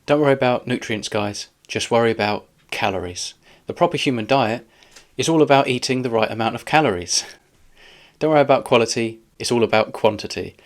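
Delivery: mock-earnest, sarcastic advice. Real, not acted. Reviewer mocking the doctor's calorie advice to viewers, sarcastic. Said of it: "I'm sorry, I'm being so sarcastic".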